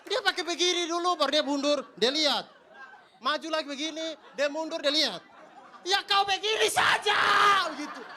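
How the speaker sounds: high, loud exasperated rant; escalating comedy rant. Acted. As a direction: scold the chicken, building to a shout. Ranting at the chicken.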